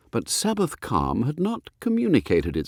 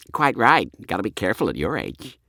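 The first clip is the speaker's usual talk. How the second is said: voiced boy. Boy mocks stepfather.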